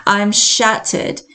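slow, sighing British-accented demo. Shown as a demonstration. Showing British slang for disappointed, sighing British accent. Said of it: "here I am going into my, my little, um, uh, my little accent as well".

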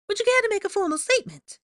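very high, fast, loud chirp; quick, fake-bright high voice; Rita Skeeter, falsely chipper. A narrator's reading. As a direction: pounce with false cheer. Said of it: "her falsely chipper voice".

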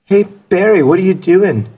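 put-on upbeat online teacher calling a kid. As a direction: greet a kid student brightly. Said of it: "calls me".

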